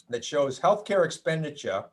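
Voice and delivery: a slip into a light Boston accent on "healthcare expenditure"; "expenditure" with the final r dropped, Boston style, unplanned. Real, not acted. Lecturer on health costs slips into a faint Boston accent. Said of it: "that was my Boston accent".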